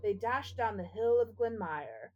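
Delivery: measured, rhythmic reading of a spooky ballad; poem recitation. Acted. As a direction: recite it like a ghost story by the fire. Reads spooky Halloween poem aloud.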